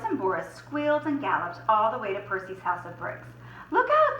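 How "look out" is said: high, loud squealing alarm; shouted warning. Acted. The two pigs warning Percy of the wolf. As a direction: shout it out in panic. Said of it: "they shouted".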